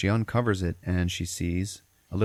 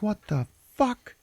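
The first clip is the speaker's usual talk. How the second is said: high, slow, drawn-out astonishment; mock stunned disbelief; slower than usual. Mom sees the bushes moving big, acted slow disbelief. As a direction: stretch it out, acting dumbfounded.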